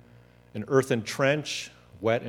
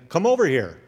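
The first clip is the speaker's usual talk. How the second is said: retold shout across; 6 semitones higher, 6 dB louder than usual. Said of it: "a confused shouting from the other side".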